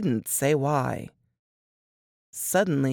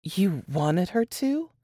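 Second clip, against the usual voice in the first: mild sarcasm; slower than usual. Acted. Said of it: "Mama questioned sarcastically".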